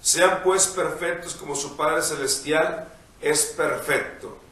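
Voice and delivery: measured liturgical reading voice; gospel reading. Acted. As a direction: read the Gospel aloud, unhurried. Priest reads the Gospel.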